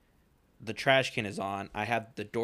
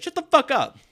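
much higher and louder, a shouted curse; re-enacted outburst at full pitch; retold yell; 10 dB louder than usual. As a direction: yell it out the car window. Yelling back out car window.

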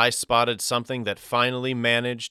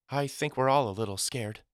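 schoolteacher; 4 semitones higher than usual. A narrator's reading. Narrator voices Miss Carrington replying.

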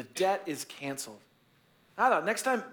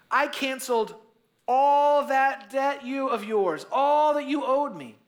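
louder, higher scolding rise; angry master; 8 semitones higher, 5 dB louder, slower than usual. Acted. Master confronts unforgiving servant, rising anger. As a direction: let the master's outrage build on the debt.

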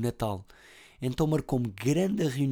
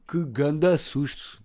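startled, louder and higher, slow; 5 semitones higher, 4 dB louder, much slower than usual. Real, not acted. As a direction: jump at the sudden door. Mother enters suddenly.

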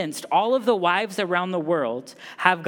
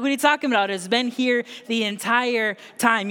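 acted exasperated wife; 3 semitones higher, faster than usual. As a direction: play the baffled wife, pitch lifted at the start. Acted wife answering husband in pantry.

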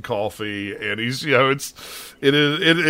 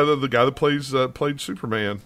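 ordinary delivery

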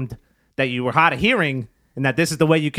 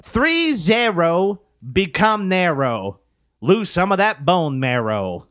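put-on light Spanish accent, slow; slow lines with a hint of a Spanish accent; slower than usual. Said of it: "you gotta kinda do a Spanish accent".

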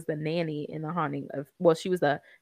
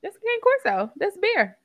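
high, loud excited naming of the breed; thrilled dog lover; 8 dB louder than usual. Real, not acted. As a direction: blurt "cane corso" like you just spotted it.

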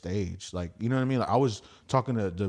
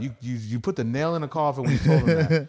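worked-up rant; 4 semitones higher, 4 dB louder than usual. Retold or imitated. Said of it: "and I'm like".

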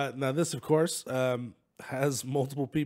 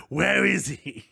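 villain demand; 4 semitones higher, 5 dB louder, much slower than usual. Acted. Carlton Drake villain demand.

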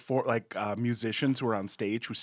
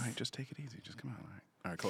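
put-on boyfriend voice; 11 dB quieter, much faster than usual. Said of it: "boyfriend voice now".

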